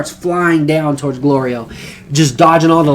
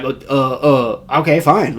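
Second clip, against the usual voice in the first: stammering, reluctant agreement; hesitant acted backing down; caught off guard. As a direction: stumble into giving in. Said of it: "didn't really think that he was gonna say that".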